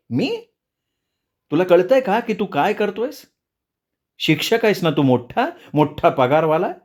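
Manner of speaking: mother beside herself with rage, voice climbing; furious mother. A narrator's reading. Mother scolds her teacher son for swearing at home, furious and high. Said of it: "माईंचा राग अनावर होत चालला होता".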